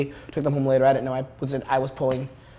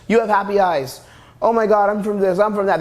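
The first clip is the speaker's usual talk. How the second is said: higher-pitched mock gushing; imitating excited girls; 5 semitones higher than usual. Coach imitates the girls chasing him, mock excited. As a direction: lightly imitate girls getting carried away. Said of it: "Their emotions are just going out".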